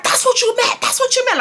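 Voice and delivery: high-pitched mocking-back mother imitation; hammed-up repeated accusation; mom going off. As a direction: throw it back as an irate mom. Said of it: "she's just going off".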